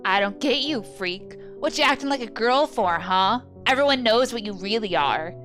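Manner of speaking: mock her while she lies curled up; taunting bully. Bully Demo jeering at the beaten girl, loud and sneering.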